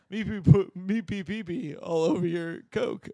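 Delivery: mock broken English. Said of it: "me Chinese".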